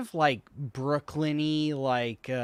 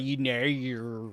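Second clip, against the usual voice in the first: put-on Australian accent; slower than usual. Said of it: "Australians could be like".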